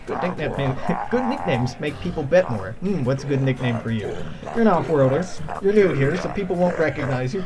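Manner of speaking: lightly voiced pushy fight promoter; a hint of a slick promoter; pushy organizer voice. Voicing the duel organizer NPC.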